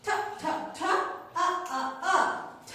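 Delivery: breathy puffs of ঠ, then আ, blended; teacher's drill of aspirated ঠ and আ; phonics sounding-out. Shown as a demonstration. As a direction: chant ঠ and আ in short beats, then join them. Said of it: "টি sounds like ঠ".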